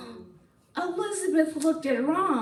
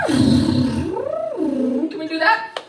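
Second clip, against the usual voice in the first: snoring sound; 4 semitones higher, 4 dB louder, much slower than usual. Shown as a demonstration. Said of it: "it sounded more like".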